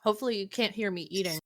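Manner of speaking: talking with a mouth full of food; words round a bite of ravioli. Real, not acted. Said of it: "I can hear that your mouth is full".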